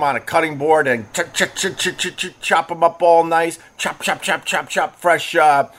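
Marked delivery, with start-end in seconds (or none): 1.1-2.4 rapid-fire knife sound effect; quick staccato "ch" bursts; chopping noise. Retold or imitated. Imitates chopping on cutting board. 3.8-5.0 rapid staccato chop-chop; quick repeated percussive words; chopping sound. Retold or imitated. Imitates chopping, rhythmic.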